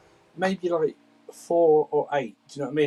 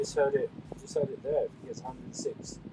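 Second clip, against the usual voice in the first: far from mic; 11 dB quieter than usual. Real, not acted. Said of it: "it sounds like he's far away".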